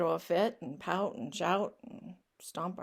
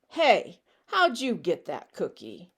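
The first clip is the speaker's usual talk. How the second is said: pushy pigeon; 2 semitones lower, 6 dB louder than usual. Acted. Pigeon confronts duckling in book.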